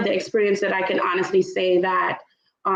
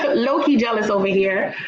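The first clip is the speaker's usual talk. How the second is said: laughing. Real, not acted. Teasing guest, laughing.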